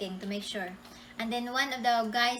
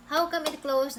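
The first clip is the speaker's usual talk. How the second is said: higher, louder retold protest; surprised protest; 6 semitones higher, 5 dB louder than usual. Retelling her reaction at the closed spring, surprised. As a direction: act out baffled disbelief.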